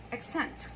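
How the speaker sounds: "Accent" said softly, stressed on the second syllable; soft model of "Accent" with the weight on the end; "Accent" as a verb, back-stressed. Shown as a demonstration. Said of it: "stress is in the second syllable".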